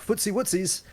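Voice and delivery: put-on high cutesy baby talk. Mimicking his girlfriend's cutesy baby talk. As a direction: coo it like a petite girlfriend. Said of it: "she'll say things like".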